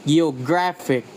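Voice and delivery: "Geographic" with the stress on "gra"; stress before IC. Shown as a demonstration. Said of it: "the stress falls on the syllable before I C".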